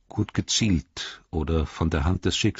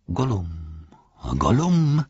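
Gollum imitation; slower than usual. A narrator's reading. Pippin mimics Gollum to tempt the orc. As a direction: mimic Gollum's swallowing noise. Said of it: "machte Pippin".

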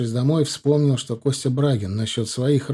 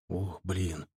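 concerned; 4 semitones lower, 6 dB quieter, slower than usual. A narrator's reading. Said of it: "обеспокоенно спросил я".

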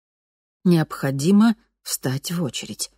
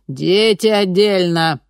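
louder, slow, firm repeat; firm repeated order; 4 semitones higher, 6 dB louder, slower than usual. A narrator's reading. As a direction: repeat it, calm and final. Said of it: "повторяла женщина".

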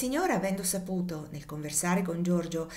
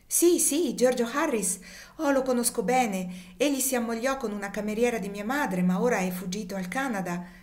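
excited recognition; 4 semitones higher than usual. Acted. Young man eagerly answering the lady, excited. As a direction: blurt it out, delighted to know him.

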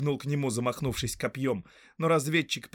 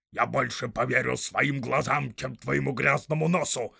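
rough orc voice; 5 dB louder than usual. Acted. Orc tracker arguing with the big orc, loud and snarling. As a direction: bark it out like a quarrelsome orc.

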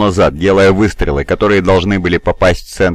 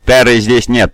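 gurgling tentacle alien; 3 semitones higher than usual. Acted. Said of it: "пробулькало оно".

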